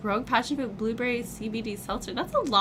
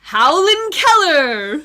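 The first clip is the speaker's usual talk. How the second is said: wolf voice; 6 semitones higher, 13 dB louder, much slower than usual. Acted. Werewolf joke punchline howl.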